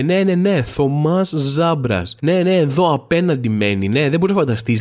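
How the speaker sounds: lightly voiced gossiping neighbour, drawn-out name; imitating neighbour on phone. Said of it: "κάνει ότι μιλάει στο τηλέφωνο". (ελαφριά μίμηση γειτόνισσας στο τηλέφωνο)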